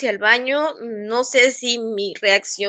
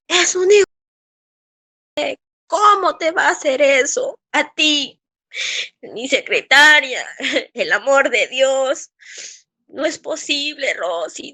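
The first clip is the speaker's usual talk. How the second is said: retold indignant doctor; 3 semitones higher than usual. Doctor reacting to his secretary's account, indignant retelling. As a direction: imitate an outraged boss, drawing out key words. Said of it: "me dice el doctor, así".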